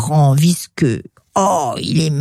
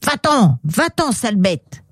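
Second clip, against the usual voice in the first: higher-pitched mock-nasty dismissal; storybook scolding; mean rejection; 3 semitones higher than usual. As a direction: chase the beast off spitefully. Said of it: "pour ne pas dire avec méchanceté".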